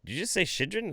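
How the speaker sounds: put-on high, puzzled kid voice; confused kids. Students baffled by the teacher, high puzzled voice. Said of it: "they're like".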